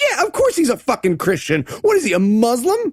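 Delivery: high-pitched exasperated retort; incredulous. Retold or imitated. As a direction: scoff as if it were obvious. Host's incredulous reaction, retold.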